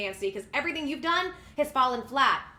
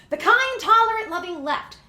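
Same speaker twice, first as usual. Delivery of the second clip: higher, louder biting sarcasm; sarcastic; 5 semitones higher, 8 dB louder than usual. Real, not acted. Host sneers at the left for his audience, loud sarcasm. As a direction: praise that means the opposite.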